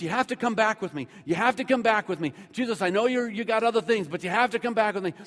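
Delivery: insistent, pressing demand; acted stubborn begging; tenacious pleading. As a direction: press the same plea over and over. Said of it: "tenacity of this man".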